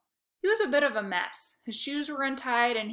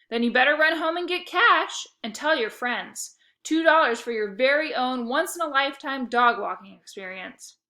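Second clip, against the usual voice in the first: loud, pushy hype; salesman pitch; 4 semitones higher, 7 dB louder than usual. A narrator's reading. Otto urges Fisher to fetch cash, loud sales pitch. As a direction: sell it big.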